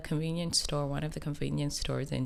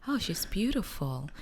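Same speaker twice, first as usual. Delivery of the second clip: imitating a stranger; 6 semitones higher than usual. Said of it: "she's like".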